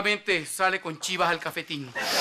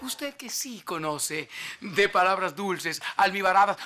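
sweet-talking; 4 dB quieter, slower than usual. Acted. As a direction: drop from the rant into slow sweet-talk. Turns from scolding to courting the viewer. (meloso, bajito y pausado)

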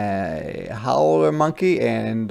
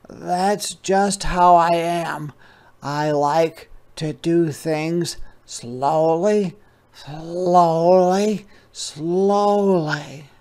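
high, slow, drawn-out sloth voice; unhurried sloth; 6 semitones higher, 5 dB louder, slower than usual. Acted. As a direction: talk like a calm sloth in no hurry, much higher. Sloth voiced after yawning.

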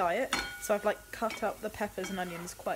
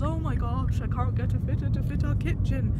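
mock whiny complaint; 4 semitones higher, 3 dB louder than usual. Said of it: "how first world problem that sounds".

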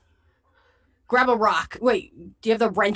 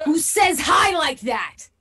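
slow, higher-pitched disbelief; incredulous; 6 semitones higher, much slower than usual. Real, not acted. Player reacts to the stranger's odd hail, incredulous. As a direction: draw out the question in disbelief.

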